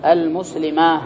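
المسلمة drawn out as al-muslimaah; pause on ha. Shown as a demonstration. Teacher repeating the variant for students, pausing on ha. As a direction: finish المسلمة with long aa and h, no t. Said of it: "بعضهم يقف بالهاء فيقول".

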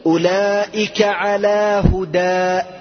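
slow, careful reading of the phrase; measured quote of the verse; slow quoted example. Shown as a demonstration. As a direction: read the example slowly. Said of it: "إذا لم يأتي التنوين".

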